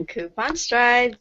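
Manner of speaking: radio announcer. Pretend. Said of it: "You sound like a radio announcer".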